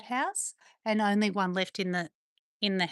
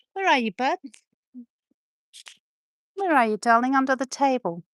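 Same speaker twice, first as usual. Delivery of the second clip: louder, higher call to a hiding dog; 4 semitones higher, 6 dB louder than usual. Real, not acted. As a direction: call out across the room. Calling dog from across room.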